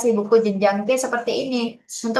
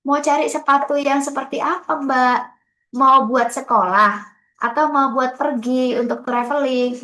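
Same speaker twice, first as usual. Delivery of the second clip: shop assistant; 2 semitones higher than usual. Retold or imitated. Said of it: "Sama kayak orang lagi di toko".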